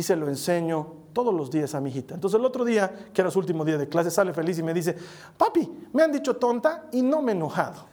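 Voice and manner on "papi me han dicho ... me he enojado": put-on higher, bright little girl's voice, proud of herself; happy little daughter. Daughter tells her father she stayed calm. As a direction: play the daughter beaming at her papi.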